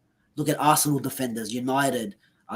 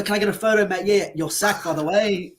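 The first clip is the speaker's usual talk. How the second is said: higher, breezy mock dialogue; mock sacking exchange; 5 semitones higher than usual. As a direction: play both sides of a casual sacking, pitched up. Acting out Van Gaal's sacking.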